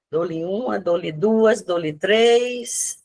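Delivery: playful auctioneer count, rising; going once, going twice, sold. Pretend. Counting down quiz answers. (leiloeiro brincalhão)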